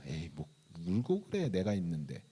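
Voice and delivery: soft, low, offhand comfort; understated, easy soothing; casual reassurance. Pretend. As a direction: wave the tears away in a quiet voice. Imagines himself brushing off the tears.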